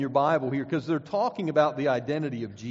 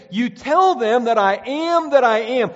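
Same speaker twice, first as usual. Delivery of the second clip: booming voice of God; 6 semitones higher, 9 dB louder than usual. Retold or imitated. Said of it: "Whom shall I say sent me?".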